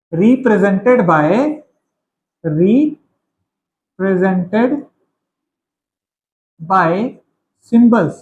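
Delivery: very slow, word by word; spaced-out words for note-taking; slow dictation. Real, not acted. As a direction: dictate it slowly while writing, with long pauses. Dictating while writing it out.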